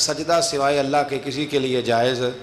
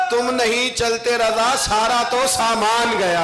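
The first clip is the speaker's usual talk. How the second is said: slow declaimed couplets, building higher; devotional verse recitation; 3 semitones higher, slower than usual. Acted. Preacher recites a poet's couplets to the congregation, building declamation. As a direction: declaim the verse, lifting it as it goes.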